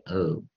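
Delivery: "O" said as in "go"; long O. Shown as a demonstration. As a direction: model the long "O" of "outgoing". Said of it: "O结尾".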